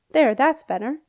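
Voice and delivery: put-on pleased as punch old knight; beaming. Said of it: "Sir Hereward beamed".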